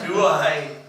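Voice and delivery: breaking into a laugh mid-quote. Retold or imitated. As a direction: laugh through the words Do I. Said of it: "laughs yeah".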